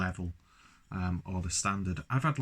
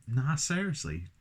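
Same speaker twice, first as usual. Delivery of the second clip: higher-pitched mock London accent; 5 semitones higher than usual. Reviewer mocking own words to viewers, London accent. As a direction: put on a London "nah, seriously". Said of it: "Where the fuck am I from? London".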